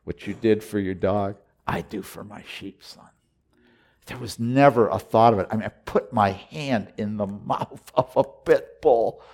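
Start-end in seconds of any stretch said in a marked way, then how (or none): 0.0-3.1 quiet voice of the Lord. Retold or imitated. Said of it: "The Lord was like".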